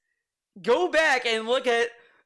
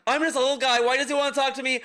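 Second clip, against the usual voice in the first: mock helpless innocence; 3 semitones higher, much faster than usual. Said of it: "this attitude is so annoying".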